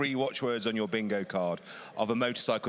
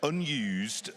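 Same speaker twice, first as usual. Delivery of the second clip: unused given weight as the key word; unused said as the selling point; stress on unused. Real, not acted. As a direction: lean into unused. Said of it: "and I stress the word unused".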